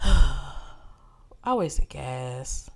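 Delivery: rising exasperated rant; building frustration. Real, not acted. Building rant about wasted trip.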